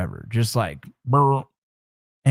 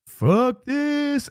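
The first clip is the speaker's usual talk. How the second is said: high-pitched yelped curse, not much louder; a pitched-up half-scream of panic; freaked-out squeal of a curse; retold scream. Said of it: "I know I screamed that out loud".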